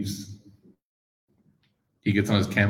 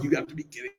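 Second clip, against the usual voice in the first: shocked disbelief; 4 semitones higher, 12 dB quieter than usual. Retold or imitated. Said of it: "their hearts have dropped and they're just like".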